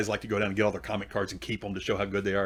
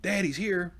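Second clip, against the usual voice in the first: lightly voiced teenage daughter, higher pitch; 7 semitones higher, slower than usual. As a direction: call to dad as the daughter, pitched up. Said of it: "and she goes".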